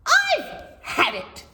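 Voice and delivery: high, slow fed-up cry; mock shriek. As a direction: cry out that you have had enough. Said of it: "shrieked Calamity".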